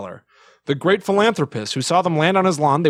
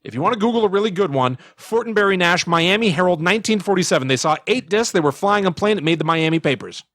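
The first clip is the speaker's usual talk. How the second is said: Aykroyd impression; 5 semitones higher than usual. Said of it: "That's what Dan Aykroyd said".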